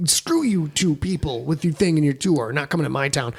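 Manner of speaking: mock grumpy fan griping about the tour; mock bitter fan. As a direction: whine it like a jilted fan.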